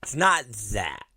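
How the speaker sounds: soft, low deadpan denial; subdued repeat. Real, not acted. Comic repeating a denial to the crowd, subdued.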